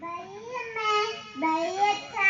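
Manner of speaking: put-on a crying child's bye, voice breaking; tearful goodbye. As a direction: say bye to mother through tears. Child leaving for school. (കരച്ചിലോടെ യാത്ര പറയൽ)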